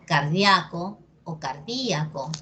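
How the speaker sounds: car-DIA-co, then car-DÍ-a-co; first cardíaco on the A, second on the Í; two accepted stresses. Shown as a demonstration. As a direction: show cardíaco as diphthong, then as hiatus. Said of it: "depende de ti cómo lo quieras decir".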